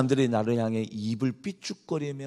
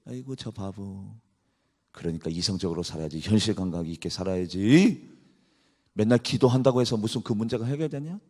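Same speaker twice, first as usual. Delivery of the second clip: softer, scornful mock pity; sarcastic taunting; 4 dB quieter than usual. Mockers scolding David, softer scornful taunt. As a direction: sneer at the fool gently. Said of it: "역으로 지금 다윗에게".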